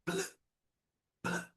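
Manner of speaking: "pl" said slowly and softly, alone, with no vowel; blended pl sound. Shown as a demonstration. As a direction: join p and l into "pl". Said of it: "o l faz pl". (encontro "pl" isolado, devagar e sem vogal)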